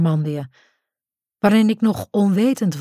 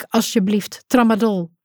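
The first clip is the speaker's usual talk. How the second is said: pleading call; 3 semitones higher than usual. Acted. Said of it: "roep ik".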